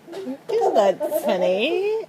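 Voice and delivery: slow, slurred mock drunk. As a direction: imitate a drunk, slowly. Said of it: "You sound drunk".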